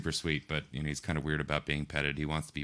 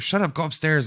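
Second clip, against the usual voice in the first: mock scolding; 11 semitones higher, 7 dB louder than usual. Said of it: "and you're like".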